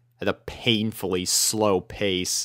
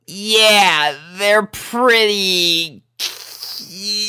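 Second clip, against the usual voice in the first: loud, very slow hesitant reply; stammering tomboy; awkward stammer; 10 semitones higher, 4 dB louder, much slower than usual. A narrator's reading. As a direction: stumble over the word. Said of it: "stammered Rainbow".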